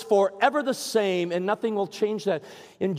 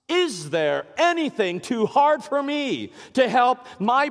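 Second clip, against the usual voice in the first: voice of God; 4 semitones higher than usual. Acted. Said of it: "God asks us".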